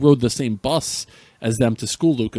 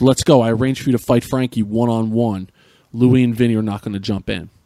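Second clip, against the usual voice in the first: louder, firmer repeat of dad's order; a little louder; 4 dB louder than usual. Retold or imitated. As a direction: push it out harder the second time. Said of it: "again, a little bit louder".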